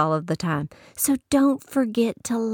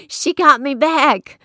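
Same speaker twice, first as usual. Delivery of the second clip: laughing, louder, slow; 7 semitones higher, 8 dB louder, slower than usual. Real, not acted. Preacher laughing loudly at her mom's payback, slow. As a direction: laugh it out as she got you back.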